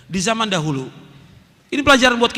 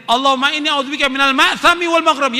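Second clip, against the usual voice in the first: repeated prayer line; 4 semitones higher, 3 dB louder than usual. Shown as a demonstration. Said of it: "Yang terakhir ini".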